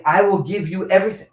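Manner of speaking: God promising. Retold or imitated. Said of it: "So God is saying".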